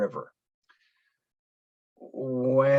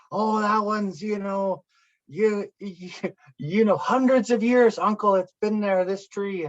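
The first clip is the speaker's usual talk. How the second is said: high-pitched youngster guessing aloud; imitated kids; 7 semitones higher than usual. Kids answering their uncle about trees, imitated in a high voice. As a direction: lightly play an eager kid answering.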